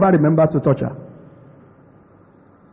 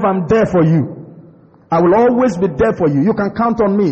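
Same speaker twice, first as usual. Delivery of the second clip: sincere reassurance. Shown as a demonstration. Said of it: "say that with a sincere heart".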